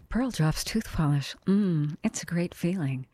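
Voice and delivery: lightly voiced commercial actor; TV commercial pitch. Comedian mimicking TV ads from childhood, commercial voice. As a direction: mimic an old toothpaste advert. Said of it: "I started mimicking commercials".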